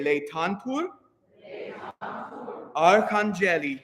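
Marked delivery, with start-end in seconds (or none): 0.0-0.9 Laetantur with the ae said as lay, leh-tahn-toor; Laetantur, first syllable lay. Shown as a demonstration. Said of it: "that A E is lay".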